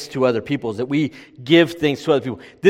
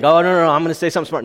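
frantic husband; 4 semitones higher, 5 dB louder, much faster than usual. Retold or imitated. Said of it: "And you think".

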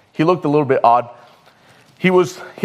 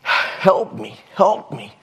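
intense plea for help; 5 semitones higher, much slower than usual. Retold or imitated. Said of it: "looking to me very intensely".

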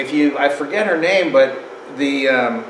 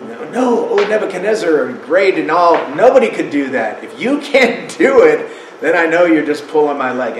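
mock king's retort; 3 dB louder than usual. King retorts to wise men.

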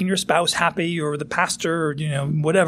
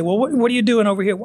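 challenging question; 5 semitones higher, faster than usual. Retold or imitated. Friend confronting someone's sin.

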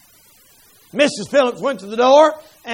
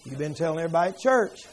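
much lower, softer voice of God; the Lord's voice; 7 semitones lower, 7 dB quieter than usual. Retold or imitated. God reminds Danny of his own preaching, low and soft. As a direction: speak as a gentle rebuking Lord. Voice of the Lord rebukes.

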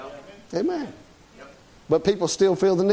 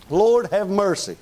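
slow, drawn-out preachy mercy; a hint of a stuffy preacher; mock fundamentalist preacher; slower than usual. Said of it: "one of them guys talks just that way".

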